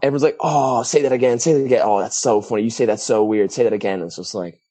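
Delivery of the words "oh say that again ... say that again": higher-pitched imitation of an amazed listener; playfully mimicked fascination; mock gushing. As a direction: gush like people tickled by an accent. Mimicking people delighted by accent.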